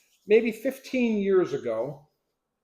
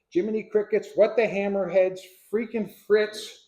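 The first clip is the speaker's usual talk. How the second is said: mild mock yell; 5 semitones higher, 3 dB louder than usual. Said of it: "started yelling".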